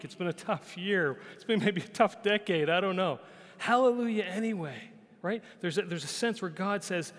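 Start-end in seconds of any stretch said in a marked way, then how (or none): 3.6-4.8 lifted, louder proclamation of Hallelujah anyway; proclaiming hallelujah. Real, not acted. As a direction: ring it out like a declaration. Preacher proclaims the key phrase.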